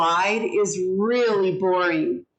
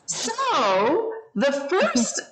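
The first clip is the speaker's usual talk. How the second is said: lots of inflection. Shown as a demonstration. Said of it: "I have ups and downs in my voice".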